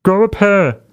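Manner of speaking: high mock blustery pastor; Rodney Howard-Browne. Host mocking the pastor before telling him off, mock blustery. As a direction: throw the catchphrase back in a mocking preacher voice. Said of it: "That fucking blustery pastor thing".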